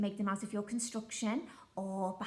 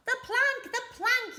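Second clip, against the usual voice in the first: high, louder chant of the plank; pirate yell; 13 semitones higher, 6 dB louder than usual. Acted. Pirates demanding the troll walk the plank, high yell. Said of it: "yelled Ben Buckle and Percy Patch".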